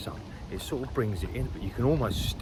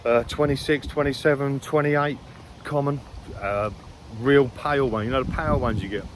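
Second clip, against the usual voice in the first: louder and higher, buzzing as he remembers the fish; eager, can't hold it in; excited; 4 semitones higher, 6 dB louder than usual. Real, not acted. Angler telling the camera about the lost carp, excited and loud.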